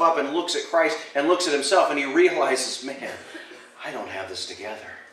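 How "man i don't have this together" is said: softer, half-laughing realization; a hushed, laughing confession; quiet rueful admission. Retold or imitated. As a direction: say it low with a rueful chuckle. Paul's imagined realization.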